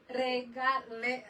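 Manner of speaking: "Regale-" with the R rolled too long, slowly; over-rolled R. Shown as a demonstration. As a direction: let the R in "Regale-" roll on too much. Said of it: "the R is rolling out too much".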